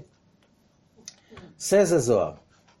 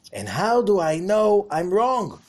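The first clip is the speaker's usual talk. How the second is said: voiced question; 7 semitones higher, 6 dB louder than usual. Preacher voices Korach's question.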